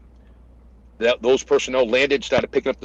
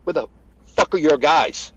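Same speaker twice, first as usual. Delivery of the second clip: mild retold yell, demanding; half-strength angry yell; 3 semitones higher than usual. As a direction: reenact chewing someone out. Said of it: "I start yelling at him".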